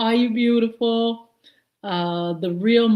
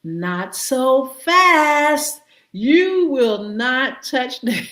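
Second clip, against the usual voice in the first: slow, stern warning; a hint of a stern judge; mock stern court; 4 semitones higher, much slower than usual. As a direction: lay down the law slowly. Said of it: "they said".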